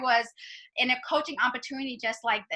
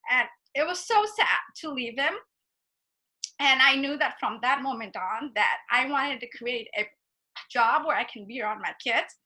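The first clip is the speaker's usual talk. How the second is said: emotional. Real, not acted. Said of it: "I still get emotional".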